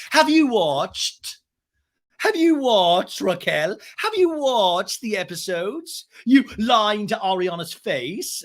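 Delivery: high, slow, emphatic accusation; mock outburst. James confronting Raquel, acted high drawn-out outburst. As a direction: stretch each word in a high mock shout. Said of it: "can't hold it any longer".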